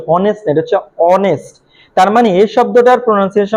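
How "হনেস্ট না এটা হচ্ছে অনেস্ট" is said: হনেস্ট with a spoken h, then অনেস্ট with no h; silent h: হনেস্ট নয়, অনেস্ট; silent h shown. Shown as a demonstration. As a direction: contrast হনেস্ট against অনেস্ট, dropping the h. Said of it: "এই শব্দটার pronunciation কি?".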